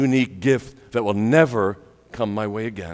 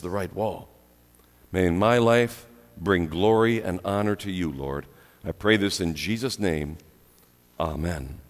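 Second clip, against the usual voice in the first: leading prayer; 2 semitones lower than usual. Acted. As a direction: talk simply and earnestly to God. Leads a spoken prayer.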